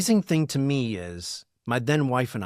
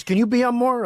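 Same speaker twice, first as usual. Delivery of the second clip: pleading fan, pitched way up; mock fan plea; 11 semitones higher, 6 dB louder than usual. Fan at dinner begging the host to appear more, high and pleading. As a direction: beg like an eager fan.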